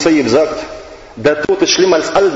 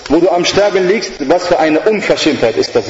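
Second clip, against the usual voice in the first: devil scolding; 3 semitones higher than usual. Retold or imitated. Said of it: "sagt er".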